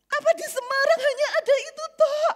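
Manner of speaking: harsh rebuke. Retold or imitated. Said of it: "sampai jadi kasar".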